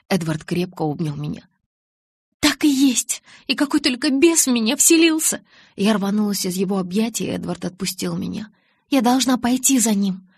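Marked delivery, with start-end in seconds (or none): 2.4-5.4 much higher, loud, near hysteria; hysterical shout. A narrator's reading. Hysterical self-reproach. 8.9-10.3 higher and louder, urgent; desperate cry. A narrator's reading. Desperate resolve.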